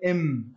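إم said short with lips closed on a held م; sounding a letter. Shown as a demonstration. Teacher showing students the م from the lips, short إم. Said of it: "هكذا".

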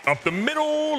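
high, rising celebratory yell; excited cheer. Real, not acted. Gamer celebrates breaking up the no-hitter, excited cheer. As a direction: cheer the hit in a high drawn-out voice.

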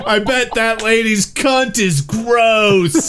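slow, relished mock insult; drawn-out mock insult. Friend parodying British use of the term, drawn-out mock insult. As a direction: stretch it out like a casual observation. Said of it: "you'd be like".

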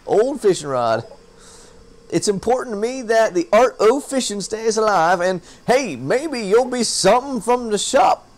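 lightly voiced folksy fisherman; a hint of a salty old sailor. Fisherman handing his old rod to the newcomer, light folksy voice. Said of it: "It's hard to talk like that".

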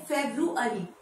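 "फेब्रुअरी" as FEB-roo-uh-ree; correct pronunciation. Shown as a demonstration. Teacher giving the correct month name, carefully pronounced. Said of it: "इसका correct pronunciation है".

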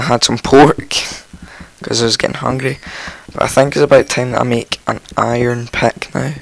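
croaky, just woken up; rough croaky morning voice. Real, not acted. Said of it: "I've got a really croaky voice".

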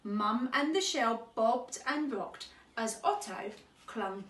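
measured picture-book reading; children's story narration. Acted. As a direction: read gently paced to young children. Reads a children's story aloud.

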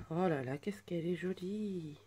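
breathy awed whisper, slow. Real, not acted. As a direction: hush it out as if marvelling. Admire la carte en chuchotant. (chuchoté, émerveillé et lent)

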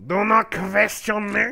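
slow stern German villain; hammed-up German command; mock German accent. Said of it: "I sound like the cyborg scientist".

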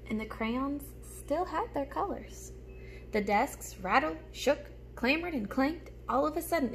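put-on lively storybook reading for little kids; reading to children. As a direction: read it like story time for a class. Reads picture book aloud.

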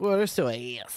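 slow imitation of a fan's accent; drawn-out mock accent; Philly five hundred. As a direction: drag out the last vowel in the fan's accent. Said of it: "say it with his accent".

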